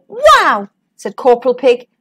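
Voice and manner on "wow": high exclamation of wonder; awed, high-pitched reaction; amazed. A narrator's reading. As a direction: marvel with a swooping high voice. Corporal amazed by egg tree.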